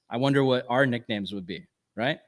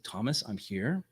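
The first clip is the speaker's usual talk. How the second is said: softer, tender reassurance; gentle Jesus; 3 semitones lower, 9 dB quieter than usual. Retold or imitated. Jesus coming gently to doubting Thomas, soft reassurance. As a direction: ease in gently, almost hushed. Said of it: "he comes in gently".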